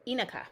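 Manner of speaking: "Inaka" with a weak uh in the middle; front-stressed "Inaka", middle vowel reduced to schwa. Shown as a demonstration. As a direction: say "Inaka" as EE-nuh-kah. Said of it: "It's a schwa vowel".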